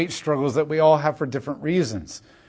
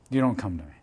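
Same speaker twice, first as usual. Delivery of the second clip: repeated softer and lower; quiet echo; 7 semitones lower, 8 dB quieter, faster than usual. Shown as a demonstration. Preacher echoing the refrain to the congregation, softly. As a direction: let the repeat fall away quietly. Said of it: "repeated line".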